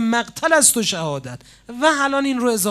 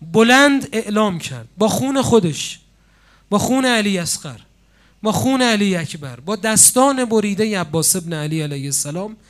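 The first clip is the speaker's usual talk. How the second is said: ordinary delivery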